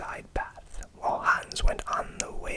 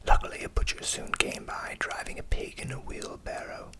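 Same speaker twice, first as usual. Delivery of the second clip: whispered storytelling. A narrator's reading.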